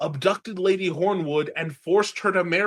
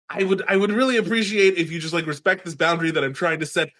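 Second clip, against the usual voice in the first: mock polite Bran; 3 semitones higher, 5 dB louder, faster than usual. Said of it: "Bran's like".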